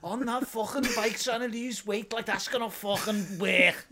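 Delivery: mock Liverpool sneer, half-laughing; Scouse bloke mocking a dad on an exercise bike; sneering Scouser. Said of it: "impersonating a very angry Scouser".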